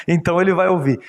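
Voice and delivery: repeats it with a laugh through "Então ele vai ouvir"; chuckling, amused retelling of "Então ele vai ouvir". Retold or imitated. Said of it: "Então ele vai ouvir." (prima volta)".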